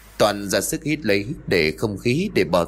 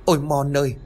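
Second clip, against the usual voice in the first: higher, rushed frightened pleading; panicked crying out; 5 semitones higher than usual. Acted. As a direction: beg the ghost child in a panic. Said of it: "mà hét lên". (giọng hoảng sợ van xin, cao và nhanh)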